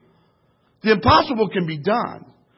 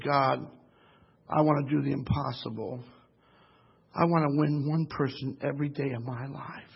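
hushed prayer; 5 semitones lower, 8 dB quieter than usual. Retold or imitated. Preacher's quiet prayer, retold.

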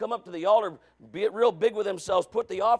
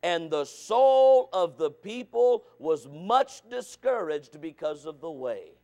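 slow, measured reading of scripture; 3 semitones lower than usual. Acted. Preacher reading scripture slowly to the congregation. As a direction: read the verse out slowly to the church.

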